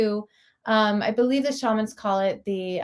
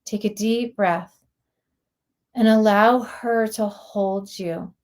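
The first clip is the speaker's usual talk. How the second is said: guided meditation. Real, not acted. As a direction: guide listeners inward, lingering on words with long pauses.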